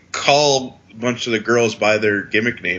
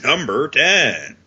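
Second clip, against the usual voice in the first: lightly announcer-like, drawn out; slow mock countdown call; 3 semitones higher, slower than usual. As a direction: stretch it out like a list announcer.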